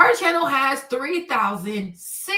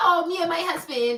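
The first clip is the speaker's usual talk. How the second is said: put-on young female voice; 4 semitones higher than usual. Retelling what the white girl says about her husband: imitating a white girl. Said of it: "She's like".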